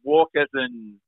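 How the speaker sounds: retold stunned, halting question; slow, hesitant alarm, rising at the end; fearful disbelief. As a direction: relive the dread, stretched out with gaps. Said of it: "you hear the fear in my voice".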